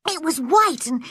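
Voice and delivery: very high, tearful wail; girl sobbing over her ruined cake. A narrator's reading. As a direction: cry the excuse through sobs. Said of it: "sobbed Anne".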